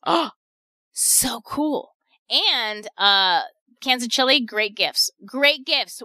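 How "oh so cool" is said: a burst then a gasp of delight; thrilled discovery, gasp and all; excited. Real, not acted. Host delights in canned chili.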